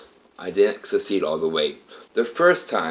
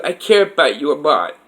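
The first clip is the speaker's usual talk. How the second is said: imitated woman's voice, raised a little; a lighter, higher voice, caring; Kathy's voice; 7 semitones higher, 4 dB louder than usual. Kathy's voice telling Dave she cares, lightly raised. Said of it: "She goes".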